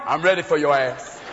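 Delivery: low-voiced challenge from a deer; tough big deer. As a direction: take on the hunter, voice dropped low. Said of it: "one big deer out there going".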